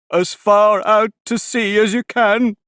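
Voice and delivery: high, loud shout. A narrator's reading. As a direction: shout it with a leap. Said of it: "shouted the Gryphon".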